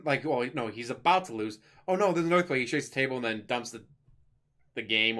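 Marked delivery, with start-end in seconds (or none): 1.9-2.6 high, louder mock alarm; old man feigning alarm. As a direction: fake a panic to dodge losing. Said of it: "it's a cute old man thing to do".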